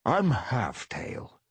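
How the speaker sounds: slow purring introduction. Acted. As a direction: purr the name slowly. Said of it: "purred the brown Tom".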